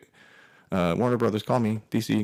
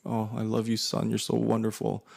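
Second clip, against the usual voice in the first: mom gushing; 3 semitones higher than usual. Retold or imitated. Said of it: "She's like".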